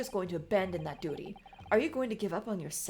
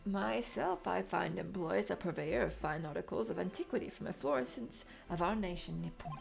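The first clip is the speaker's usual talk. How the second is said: put-on lower, quiet old dealer; old man voice; 3 semitones lower, 4 dB quieter than usual.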